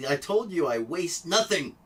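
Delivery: emphatic, voice leaping on nothing; vehement declaration. Real, not acted. Tech vlogger boasting to viewers about wasting nothing, vehement. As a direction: declare it proudly, with force. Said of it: "hear the tone of my voice".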